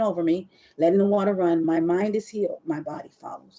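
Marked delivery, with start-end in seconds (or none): 1.6-3.6 mantra. Shown as a demonstration. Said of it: "literally what I say".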